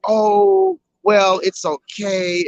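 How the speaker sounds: sing-song imitation of a backtrack; mocking voice. Mimicking their changed answer.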